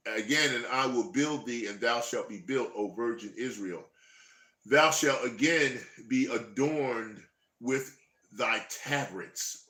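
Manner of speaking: slow, solemn Bible reading; scripture reading. Acted. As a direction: read it out like a preacher. Reads scripture aloud.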